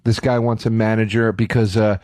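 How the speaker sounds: low, deadpan clerk on the phone; droning desk guy calling the manager; unbothered clerk. Retold or imitated. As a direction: report it low and weary, with pauses. Clerk phoning his manager, mocked.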